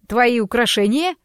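confused, disbelieving question; bewildered. Acted. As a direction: ask it thrown off balance. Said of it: "растерянно переспросил Заяц".

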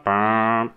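long, level phone ringing tone; drawn-out imitation of a ringback beep; imitated ring tone. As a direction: hold one steady note like a dial tone. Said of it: "escuchamos un primer tono".

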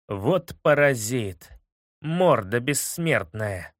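slow, mildly indignant outburst. Acted. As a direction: grumble it out in mild outrage. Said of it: "возмутился Иванду". (возмущённо)

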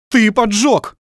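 high, loud accusing yell; rolling shout. A narrator's reading. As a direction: let it roll across the beach. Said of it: "раскатился по пляжу голос".

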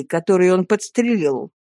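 plain reading voice

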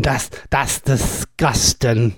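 slow, low Norfolk "That's, that's disgusting"; Norfolk accent. Shown as a demonstration. Host showing listeners the proper Norfolk phrase, drawn-out Norfolk. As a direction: drag it out the broad Norfolk way. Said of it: "a proper Norfolk way to say it".

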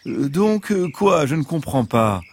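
high fox playing dumb; a lightly voiced fox faking confusion.

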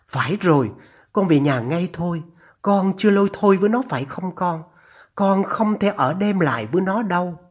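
lightly voiced mother urging her son; a hint of anxious maternal insistence; worried mother. (giọng người mẹ lo lắng giục con)

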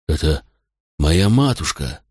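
put-on slow, teary drunken mumble; tearful mumble. A narrator's reading. Drunk son staring at his lost mother, tearful mumble. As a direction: mumble it through tears. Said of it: "бормотал Макрон, и по щекам его струились слёзы".

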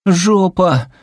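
high, loud sobbing cry; wailing insistence. A narrator's reading. Daughter insists tearfully to her mother, high wail. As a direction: wail the one word through tears.

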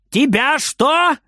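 high, slow puzzled shout; shouting back. Acted. Grandma shouts back at the hidden boy. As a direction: call back, not quite catching it. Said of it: "кричит бабушка в ответ".

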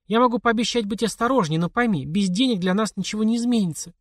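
mother's voice. A narrator's reading.

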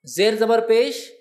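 slow, loud listing of the vowel marks; slow, emphatic listing. Shown as a demonstration. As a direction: lay out زیر زبر پیش word by word, slowly and loudly. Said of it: "یہ تو پہچان ہی نہیں سکتے آپ".

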